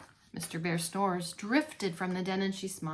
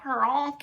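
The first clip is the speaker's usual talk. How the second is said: snore honk; 3 semitones higher than usual. Acted. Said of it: "he said".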